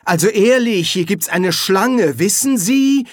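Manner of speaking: high-pitched, faint-hearted objection; timid protest. A narrator's reading. Merchant pushed out of the queue, timidly protesting. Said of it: "sagte der ehrenwerte Kaufmann für neue Runen zaghaft".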